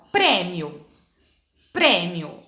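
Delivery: prêmio with the Ê said closed, in a slow demo; closed E sound. Shown as a demonstration. Teacher showing pupils the closed Ê in prêmio. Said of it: "fazendo o som ficar mais fechado".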